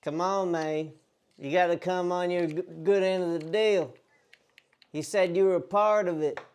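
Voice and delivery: country bumpkin debt collector, lightly put on; country bumpkin accent. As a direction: press for payment in a mock country accent. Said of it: "The, the country bumpkin".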